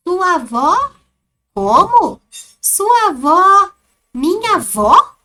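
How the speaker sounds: loud, high, slow disbelieving questions; a stunned listener who can't believe the answer; astonished. Shown as a demonstration. The person who asked reacting to the dog's name with loud astonishment. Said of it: "como está a entonação do texto".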